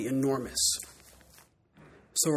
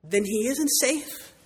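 Lucy; 8 semitones higher, slower than usual. Acted. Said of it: "said Lucy".

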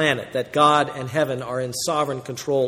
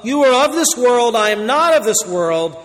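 solemn proclaimed warning; 6 semitones higher, 4 dB louder than usual. Acted. First reading of same quote.

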